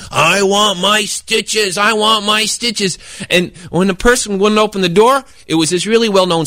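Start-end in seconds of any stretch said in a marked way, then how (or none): 0.1-3.0 very slow, drawn-out zombie moan; monster voice. Retold or imitated. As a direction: groan it like a headless monster. Monster voice in retold story.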